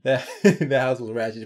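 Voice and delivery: words through a chuckle; amused laughing line; laughing while speaking. Real, not acted. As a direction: say it while cracking up.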